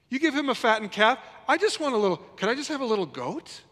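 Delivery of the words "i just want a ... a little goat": put-on high pleading whine, childlike; whiny older brother. Pastor mimics older son begging his father, high whine. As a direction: beg like a pouting child. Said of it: "the arrogance in his attitude".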